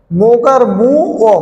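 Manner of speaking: slow sounding out. Shown as a demonstration. Teacher to students, slowly sounding out a syllable. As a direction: say মৌকার মু অ slowly, each syllable drawn out. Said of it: "যেভাবে উচ্চারণ করলে সুবিধা হবে".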